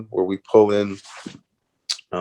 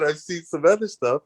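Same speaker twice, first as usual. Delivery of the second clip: ordinary delivery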